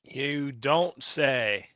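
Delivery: very slow, dry sarcasm; deadpan you don't say; sarcastic drawl. Real, not acted. Sarcastic reaction to the stream.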